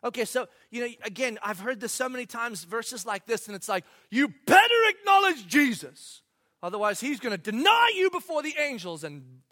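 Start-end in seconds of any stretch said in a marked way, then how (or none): 4.1-9.0 a loud, pushy preacher warning; hammed-up threatening preacher; mock stern warning. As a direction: bark it like a fire-and-brimstone threat.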